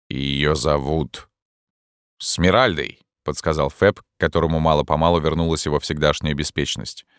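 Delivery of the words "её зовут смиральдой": ghostly voice. A narrator's reading. Ghost speaks.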